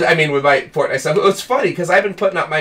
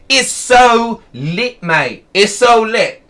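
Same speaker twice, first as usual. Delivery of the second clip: mocking slang; 5 semitones higher, much slower than usual. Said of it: "make fun of it a little bit".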